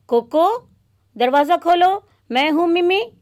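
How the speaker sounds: put-on girl calling.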